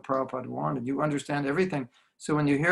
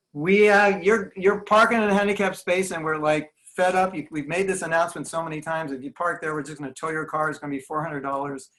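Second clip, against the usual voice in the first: fed-up announcement; 3 semitones higher, 4 dB louder than usual. Retold or imitated. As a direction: scold the parking offenders over the speakers. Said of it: "I come to a temple in America and I go".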